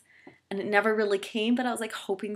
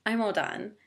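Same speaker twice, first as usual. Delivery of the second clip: mock polite; 3 semitones higher, slower than usual. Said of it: "so I was very polite".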